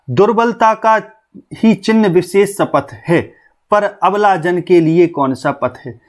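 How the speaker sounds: slow, measured verse reading; poem recitation. Acted. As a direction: recite the verse slowly and deliberately. (धीमा कविता पाठ)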